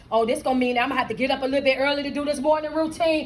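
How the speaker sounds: fast, low grumbling excuses; reluctant excuse-making. Acted. Client balking at coach's early morning routine, grumbling.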